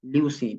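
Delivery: ल्यूसीन kept as written, lyoo-seen, falling; ल्यूसीन read exactly as spelt, final fall; pronunciation demo. Shown as a demonstration. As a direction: say ल्यूसीन unchanged, closing the list. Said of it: "वैसे ही pronounce करते हैं जैसे वो लिखा होता है".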